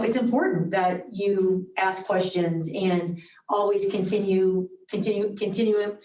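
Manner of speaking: muffled behind a mask; through a face mask. Real, not acted. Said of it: "It's hard to talk with a mask on".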